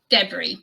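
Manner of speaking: "debris" as DEB-ree; short e, stress first in "debris"; preferred British pronunciation. Shown as a demonstration. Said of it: "I personally say".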